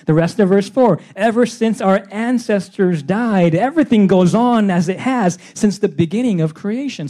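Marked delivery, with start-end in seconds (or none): 1.2-7.1 mild scoffing sarcasm; mocking. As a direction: read it with a sneer of disbelief. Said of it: "They double down on this".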